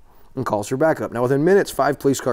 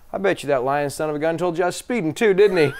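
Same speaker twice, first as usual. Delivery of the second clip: laughing through the punchline, a bit higher; 4 semitones higher than usual. Acted. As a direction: let the laugh break into the last words.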